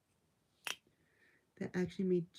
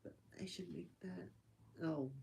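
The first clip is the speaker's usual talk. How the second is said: soft whisper; 7 dB quieter than usual. Real, not acted. Mostly whispering.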